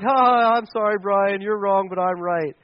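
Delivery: put-on dismissive laugh; mock laughing apology. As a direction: fake chuckle into a smug apology. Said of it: "we laugh like".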